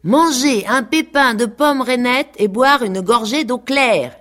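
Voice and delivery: high, loud sing-song recitation; animals in chorus. A narrator's reading. Farm animals chanting the lesson back in chorus, high and loud. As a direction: recite it back like eager pupils. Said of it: "disaient en chœur toutes les bêtes".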